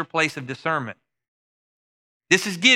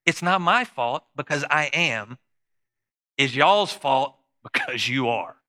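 blunt God verdict; slower than usual. Retold or imitated. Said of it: "I'll just sum it up".

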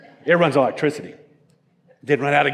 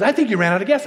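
amused, higher, laughing through it; 6 semitones higher, faster than usual. Retold or imitated. Friend teasing the boat owner about the empty tank, laughing. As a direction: tease him while chuckling. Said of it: "He goes".

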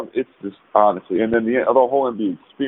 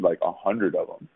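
usual speaking voice

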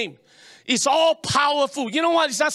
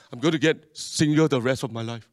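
despairing quote; 10 semitones lower than usual. Retold or imitated. Quoting someone after breakup.

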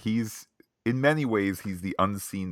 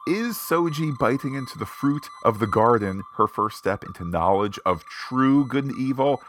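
mock starship officer; 5 semitones higher, 5 dB louder than usual. Mock sensor-officer theory segment.

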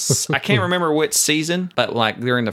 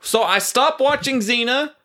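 hammed-up rant; 12 semitones higher than usual. Real, not acted. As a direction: overplay the shallow confession. Mock self-deprecating rant.

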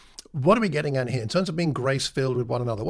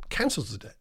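repeated, much softer and lower; soft echo; 5 semitones lower, 6 dB quieter than usual. Shown as a demonstration. Preacher repeating the master's pardon, soft echo. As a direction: let it fall away softly.

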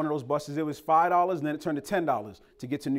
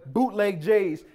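mock curse; 5 semitones higher, 4 dB louder, slower than usual. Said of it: "I was like".

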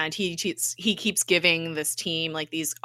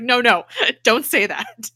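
laughing protest; 5 semitones higher, 6 dB louder than usual. Retold or imitated. Fitz protests the sex robot remark.

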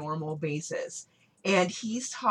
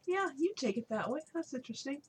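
sarcastic; 9 semitones higher, 6 dB quieter than usual. Real, not acted. To co-host, doubting his take, sarcastic. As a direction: sound unconvinced and teasing.

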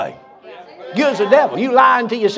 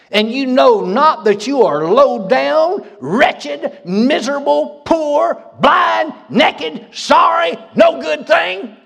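rising preaching; 4 semitones higher, slower than usual. Acted. Preacher reading the church its faults, building to a shout. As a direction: hammer each word harder as the list grows.

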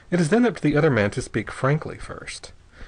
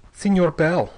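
a lightly voiced bitter young man, raised a little; 6 semitones higher, 4 dB louder than usual. A narrator's reading. Young Ortiz greeting his prisoner Bell, bitter. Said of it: "said the young man bitterly".

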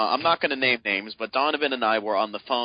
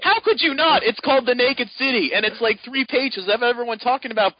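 higher, louder mock exasperation; exasperated disbelief; 11 semitones higher, 5 dB louder than usual. Telling the friend it's called The Naked City, hammed-up exasperation. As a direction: throw up your hands in disbelief.

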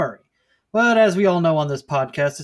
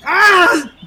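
pained yelp; 13 semitones higher, 10 dB louder than usual. Acted. Hit in the nose.

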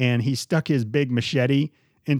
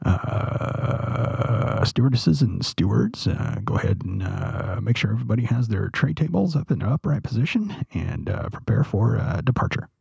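lightly voiced airline captain; a hint of a captain on the intercom; pilot announcement voice; 3 semitones lower than usual. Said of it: "You have a pretty good captain voice".

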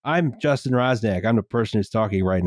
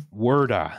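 Boston-area "werda" for water; mock Irish Riviera vowels, final R dropped; Irish Riviera accent. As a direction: imitate a South Shore Boston accent. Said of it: "The Irish Riviera accent".

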